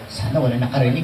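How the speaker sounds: low, laughing aside; laughing relief. Retold or imitated. Speaker laughs at his own secret mirror talk.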